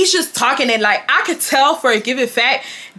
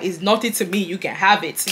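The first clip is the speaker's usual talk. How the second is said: put-on Yoruba accent; 3 semitones lower, 4 dB quieter than usual. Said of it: "with his accent".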